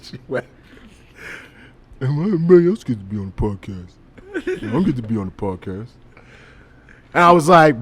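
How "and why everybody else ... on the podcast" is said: fast, sulky whine about being left out; butthurt girlfriend voice. Retold or imitated. Girlfriend sulking she isn't on the podcast, fast whiny voice. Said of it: "the voice I'm gonna make is a butthurt voice".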